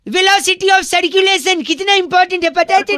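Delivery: high-pitched mock-earnest insistence; insistent lecturing. Prankster talks over annoyed listener.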